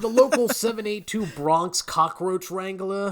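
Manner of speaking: lightly put-on Bronx union man; hammed-up Bronx voice through a laugh; mock Bronx accent. Host plays a cockroach wrangler from the local union, mock Bronx accent. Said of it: "that's pretty good. That's actually more believable".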